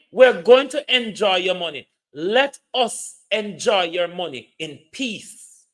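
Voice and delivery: loud, punching "going" in "We're going to enjoy your money"; loud defiant retort; defiant shout. Real, not acted. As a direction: declare it loudly at the critic. Defiant rant at relative.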